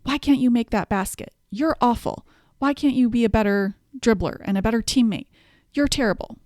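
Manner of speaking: imitating a critical coach chewing out a player; mean, harsh coach. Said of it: "a coach who is really mean and harsh and critical".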